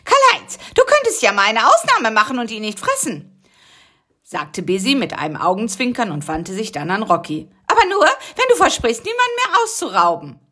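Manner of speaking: high, playful voice; sly suggestion. Acted. Busy hinting at mercy, high and playful. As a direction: wink through the words.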